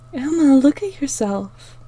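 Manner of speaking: steady her friend with certainty; confidently. Acted. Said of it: "Star said confidently".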